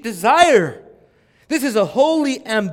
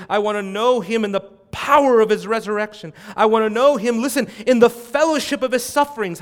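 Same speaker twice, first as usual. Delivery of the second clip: mild emotional plea; 3 semitones higher, 4 dB louder than usual. Acted. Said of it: "Did you see the emotion there?".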